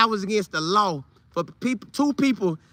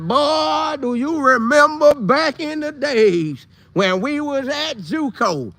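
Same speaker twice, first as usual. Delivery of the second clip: put-on slow, higher old-man voice; old man reminiscing; 4 semitones higher, slower than usual. Teller as an old man in a rocking chair, slow and higher. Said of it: "I'ma be an old man".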